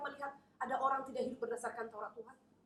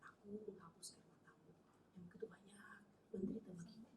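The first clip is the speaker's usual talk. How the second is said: Jesus whispering comfort, very soft; tender whisper; 3 semitones lower, 13 dB quieter than usual. Acted. Jesus comforts the weeping missionaries, soft whisper. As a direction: hush it like wiping away tears.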